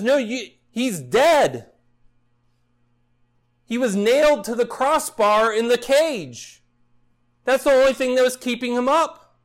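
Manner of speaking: hammed-up furious shopper shouting; shouting customer. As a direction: bark it like a fed-up customer. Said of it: "He's shouting at him".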